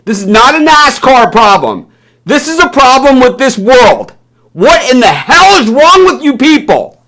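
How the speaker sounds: emphatic, indignant rant; real outrage, each sentence driven home; real ranting anger. Real, not acted. Vlogger confronting people over a world problem, angry ranting. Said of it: "I'm sorry for screaming".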